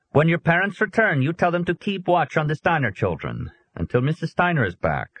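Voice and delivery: lightly Swedish, firm and commanding; Swedish accent. A narrator's reading. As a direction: Swedish officer instructing the boy. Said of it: "the policeman asked with an accent".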